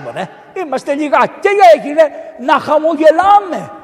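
high, loud, ringing sermon voice; full-force joyful preaching; fervent preaching. Acted. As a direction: preach it out with rising joy.

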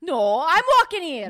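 loud, high, hammed-up Scottish shout; Scottish accent. Player competing with the other, shouted Scottish accent. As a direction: outdo them with a shouted Scottish brogue. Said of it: "your accent is Scottish".

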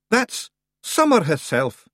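drawn-out broad Scots warning; a wee dark joke; slow high Scots pixie. Acted. Rob warning Roland, slow and broad.

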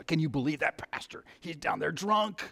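hushed, breathless gossip whisper; gossipy whisper. Acted. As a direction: lean in and whisper the scandal. Gossiping on the phone about pastor.

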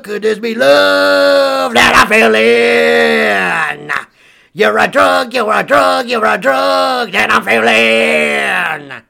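belted chorus. Pretend. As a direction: belt the chorus out. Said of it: "I wanna see you sing this one song".

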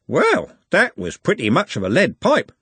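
slightly dazed, lifted-pitch driver; stunned bus driver. Acted. Driver reacting to a lead pipe, stunned.

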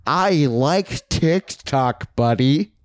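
slow goofy drawl on TikTok, buddy; dopey fan voice. Acted. Listener mocked as a slow dopey fan. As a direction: play a dim superfan. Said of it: "So you go".

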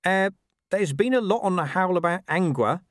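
a hint of a streetwise dog; scruffy dog voice. A narrator's reading. Gaspode the dog speaks.

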